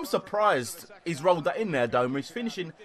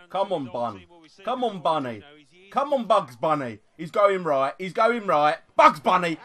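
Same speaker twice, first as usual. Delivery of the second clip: building urging; 2 semitones higher, 5 dB louder than usual. Real, not acted. Willing penalty taker, building.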